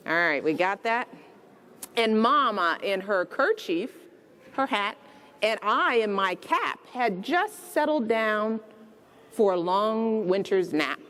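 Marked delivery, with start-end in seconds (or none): 2.0-11.0 gentle read-aloud storytelling; bedtime story reading. A narrator's reading. Reading The Night Before Christmas aloud to children, storybook voice.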